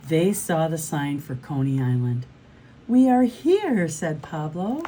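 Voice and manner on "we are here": high, loud, slow announcement; excited arrival. A narrator's reading. Pablo announces arrival at Coney Island, excited. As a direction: proclaim it, pitched up and drawn out.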